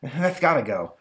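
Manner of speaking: lightly high monster voice; grand storytelling monster; prissy monster. Retold or imitated. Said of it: "monster telling its story".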